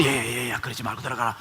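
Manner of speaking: low, soft father's voice; coaxing father. Acted. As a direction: hush the angry son quietly. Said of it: "아버지가 나와서".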